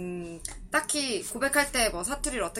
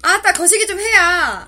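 loud, higher Jeolla urging; Jeolla dialect; 7 semitones higher, 9 dB louder than usual. Shown as a demonstration. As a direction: push a friend to hurry in Jeolla dialect, 아따 stretched. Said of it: "한마디로 정리해줄까요".

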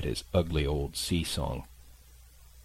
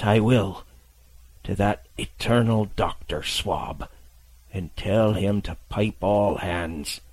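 slow, weak sea-dog voice; an old pirate confessing his secret; dying old captain. Acted.

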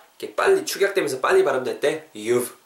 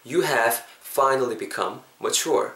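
very slow, "You" stressed and rising; slow full form; much slower than usual. Shown as a demonstration. Teacher reads the unshortened sentence slowly. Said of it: "이렇게 하시면 되겠습니다".

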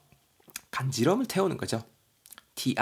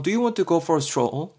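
slow example read; 5 semitones higher, 3 dB louder, much slower than usual. Shown as a demonstration. A's example line, slowly.

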